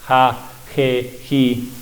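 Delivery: "ja, je, ji" as the English H in hello; soft H. Shown as a demonstration. Teacher repeating the soft H syllables. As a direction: breathe out "ja, je, ji" lightly, like hello. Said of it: "el mismo sonido de esa H de inglés".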